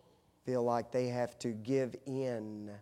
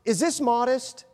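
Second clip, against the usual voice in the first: high, light imitation of his wife; mimicking his wife; 10 semitones higher, 7 dB louder than usual. Husband mimicking his wife at the dressing room, high and playful. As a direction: play the wife fishing for approval. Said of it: "And she would go".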